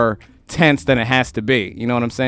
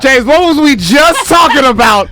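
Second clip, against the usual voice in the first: raised, high, agitated ranting; venting to James, worked up and louder; heated complaint; 8 semitones higher, 4 dB louder than usual. Real, not acted.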